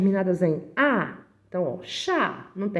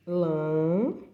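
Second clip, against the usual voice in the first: drawn-out syllables with long pauses; syllable-by-syllable dictation; 3 semitones lower, slower than usual. Shown as a demonstration. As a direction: dictate slowly as you write each syllable. Dictating while writing the word out.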